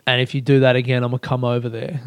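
passive-aggressive. Retold or imitated. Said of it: "in a really passive-aggressive way".

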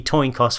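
"coin cost" slipped into "toin coss"; accidental spoonerism. Real, not acted. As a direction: swap the first sounds of "coin cost", saying "toin coss". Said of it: "Did you mean to say toin cost".

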